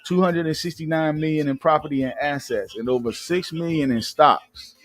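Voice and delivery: reading out a gossip article; news read. Acted. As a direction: read it like an entertainment news report. Reads celebrity news article.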